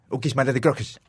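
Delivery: fake foreign language. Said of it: "en un idioma inventado".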